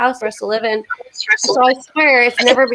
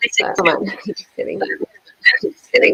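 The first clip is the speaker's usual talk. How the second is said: laughing. Real, not acted. Joking after a complaint.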